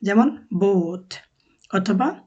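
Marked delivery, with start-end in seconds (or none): 0.5-1.1 slow বোথ with a stretched O; drawn-out O. Shown as a demonstration. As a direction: hold the ও in বোথ a little. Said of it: "but একটু টান থাকে ও". (বোথ-এর ও একটু টেনে)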